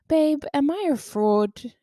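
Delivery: high, drawn-out retold whine; mock tearful wail. Upset woman calling partner at night, mock tearful. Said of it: "I was crying".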